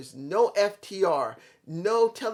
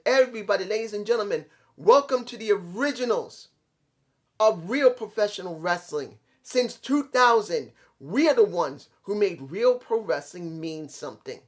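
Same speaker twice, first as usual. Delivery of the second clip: mock ring announcement; 2 semitones higher, 3 dB louder than usual. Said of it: "C M Punk takes the mic and said".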